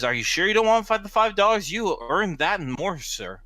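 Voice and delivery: acted gentleman in a lab coat; scientist's insistent offer. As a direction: press the offer earnestly. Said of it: "the scientist, the gentleman in the lab coat".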